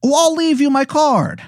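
very high, exaggerated bad Canadian accent; Angel of Canada, Canadian accent. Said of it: "it is a horrible Canadian accent".

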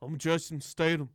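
mock Cockney accent; Jason Statham impression. Co-host introducing himself as the actor, mock Cockney accent. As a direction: try a jokey London accent. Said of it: "It's like Cockney".

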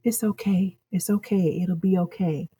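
soft, tender grandma comfort. Retold or imitated. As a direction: hush a fallen child like a loving grandma. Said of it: "she tells you".

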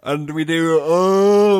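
words stretched by a real yawn. Real, not acted. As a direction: talk through a yawn. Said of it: "I'm yawning".

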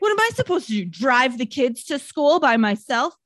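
lightly hammed-up husband's complaint, starting high; mock indignant husband. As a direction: imitate a helpless husband protesting. Mocking the helpless husband's complaint.

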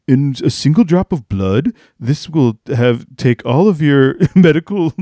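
lightly voiced earnest pitchwoman; a hint of a breathless startup founder pitch; Elizabeth Holmes impression. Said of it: "that's how I think of Elizabeth Holmes".

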